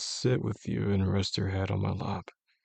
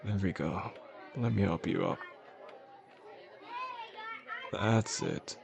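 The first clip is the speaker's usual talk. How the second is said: softer, steady coaxing; gentle reassurance; 6 dB quieter than usual. Acted. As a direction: gently guide someone unsteady along. Helping unsteady partner walk.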